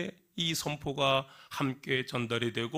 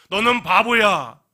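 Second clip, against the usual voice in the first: mock insult; 8 semitones higher, 13 dB louder, slower than usual. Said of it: "라고 하는 것은".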